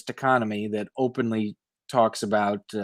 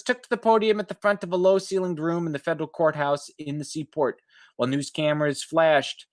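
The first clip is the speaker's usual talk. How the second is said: higher, measured reporter read; article read aloud; 3 semitones higher than usual. Acted. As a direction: read it like a radio feature story. Reads article text aloud.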